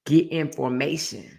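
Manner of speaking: slow, lightly imitating a singer; a light hint of a singer; singer impression. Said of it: "exactly like how Beyonce said".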